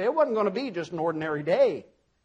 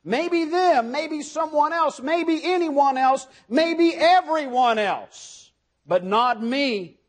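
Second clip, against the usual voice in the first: Peter insisting; 5 semitones higher, 3 dB louder, slower than usual. Retold or imitated. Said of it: "His initial response to all this is".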